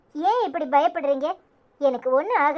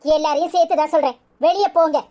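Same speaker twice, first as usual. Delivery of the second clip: angry order. Acted. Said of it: "ஏன் இப்படி கோவமா பேசுற?".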